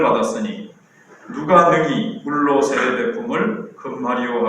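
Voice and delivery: formal pulpit reading of Acts; scripture reading. Acted. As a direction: read the passage solemnly and steadily. Reads the Bible passage aloud.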